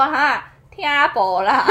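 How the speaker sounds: slow, laughing Taiwanese reply; taiwanese accent. Retold or imitated. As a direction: fumble it in broken Taiwanese. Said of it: "我都会说".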